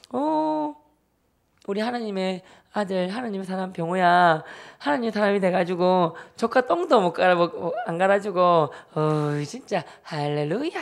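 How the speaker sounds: sister's drawn-out mock-holy needling; pious teasing. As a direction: imitate someone taunting with church talk. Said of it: "이런 놀리는 거예요".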